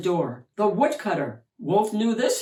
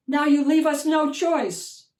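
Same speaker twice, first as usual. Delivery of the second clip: knight's stern warning; 8 semitones higher, 5 dB louder than usual. Acted. Knight confronting the giant.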